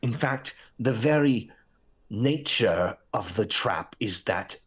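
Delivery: lightly voiced slow, deliberate queen; a measured queen reasoning out her trap; slow, halting formal speech; queen in a story. Plays a trapped queen figure.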